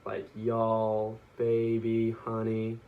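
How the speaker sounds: put-on drawn-out Texas vowels on y'all, baby, honey; slow Southern drawl demo. Shown as a demonstration. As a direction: stretch each vowel the Southern way. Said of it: "prolong the vowels in the words that they say".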